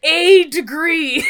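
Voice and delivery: "a" drawn out, loud and high; "a degree" slow and loud, punching "a"; stress on A. Real, not acted. Scoffing at only one degree.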